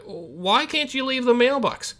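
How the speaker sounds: calling out to the stranger; slow called question. Acted. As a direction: yell the question across. Calling across street.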